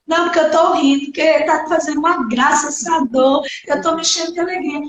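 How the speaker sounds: rushed, dripping mock cheer; sarcastic reply. Patient answering the nurse, fast sarcastic retort. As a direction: fire back sarcastically, fast.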